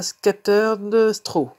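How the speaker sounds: English colour name read slowly in a put-on English accent; French speaker trying an English accent. Shown as a demonstration. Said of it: "avec mon super, euh, accent anglais".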